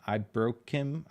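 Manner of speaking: "I broke him" sounded out slowly as a name; sounding out a name. Real, not acted. Streamer reading a viewer's name, sounding out "I broke him". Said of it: "Did I say that right?".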